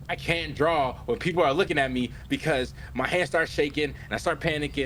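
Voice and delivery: lightly acted rising panic; retold panic. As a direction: imitate someone starting to freak out. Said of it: "he just crashes out".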